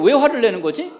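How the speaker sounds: high, loud acted bewilderment; astonished protest. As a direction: protest loudly, utterly baffled by the anger. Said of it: "저는 깜짝 놀랐어요". (깜짝 놀라 억울한 듯 목소리 높여 되묻기)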